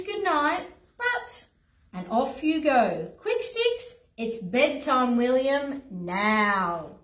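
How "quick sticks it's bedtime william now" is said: firm parent. Acted. Parent ordering bed.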